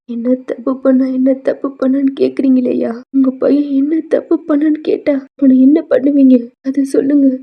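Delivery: loud, furious questioning; shouting in rage at the other father; angry shout. Acted. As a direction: hurl the question back at them. Father shouts at boy's parents.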